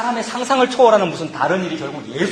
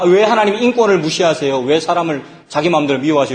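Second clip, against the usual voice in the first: loud indignant challenge; indignant protest; 6 dB louder than usual. Retold or imitated. Complainer protesting God's choice, loudly indignant. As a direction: demand it, outraged and louder. Voiced protest against God.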